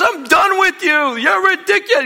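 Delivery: loud, high comic rant; imitated husband yelling. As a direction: yell it at the wife at top volume. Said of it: "He's just yelling".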